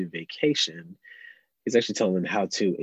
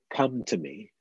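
gentle invitation; 3 semitones higher, 5 dB quieter, slower than usual. Retold or imitated. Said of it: "he calls out to the weary".

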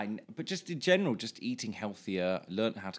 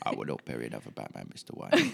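Michael Caine Cockney; 10 semitones lower than usual. Acted. Co-host mimicking the ex's British accent, hammed-up Cockney. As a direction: do a hammed-up Cockney film butler. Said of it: "he sounded a bit like Michael Caine".

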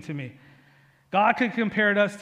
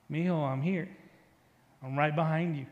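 little voice; 2 semitones lower, 5 dB quieter than usual. Retold or imitated. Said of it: "I hear this little voice behind me".

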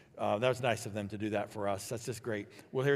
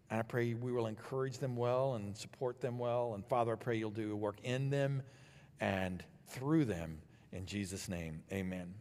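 prayer. Acted. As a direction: pray gently over the mothers. Pastor leads prayer.

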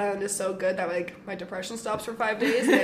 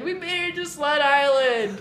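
tearful joy; 5 semitones higher, 4 dB louder, slower than usual. Retold or imitated. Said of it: "And I'm, like, crying".

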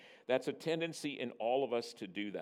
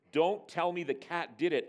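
raised, higher exasperated father voice; mild bellow; 5 semitones higher, 4 dB louder than usual. Acted. Father rejecting his daughter's cat excuse, mock bellow. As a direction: bellow lightly in mock authority. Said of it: "I bellowed".

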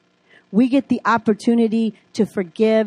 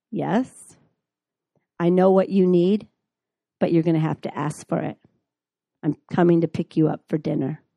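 lightly voiced lawyer friend, lower and quicker; a hint of a calm, businesslike friend, lower and fast; 4 semitones lower than usual. Lawyer friend on the phone to her, lightly voiced, low and quick.

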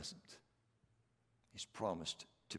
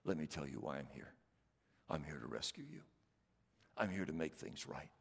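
gentle promise; 4 semitones lower than usual. Acted. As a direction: lean in and comfort. Voicing Jesus gently.

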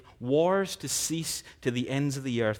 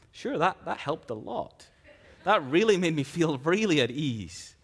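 higher mock-grateful sarcasm; sarcastic reply; 3 semitones higher, 4 dB louder than usual. Worried listener answering the calming parent, higher and sarcastic. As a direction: lay the irony on thick. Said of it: "And you're like".

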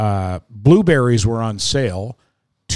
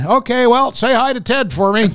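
lady's voice; 12 semitones higher than usual. Retold or imitated. Checkout lady signing off to Ted himself, high lady's voice. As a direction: send the fan lady off brightly. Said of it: "and then she said".

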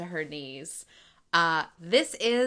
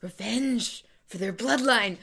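dramatic villain; slower than usual. Acted. Dramatic quote recital.

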